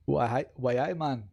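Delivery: tentative mock Geordie accent; shaky-start Geordie impression, restarting the catchphrase; attempted Geordie accent. Shown as a demonstration. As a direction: feel your way into a Geordie accent. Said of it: "a Geordie accent".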